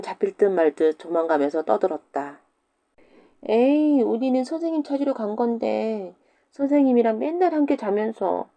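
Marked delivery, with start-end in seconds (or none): 3.5-8.5 put-on higher teasing child voice; taunting kids. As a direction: jeer while running off. Kids taunting while fleeing. (도망가며 놀리는 아이들)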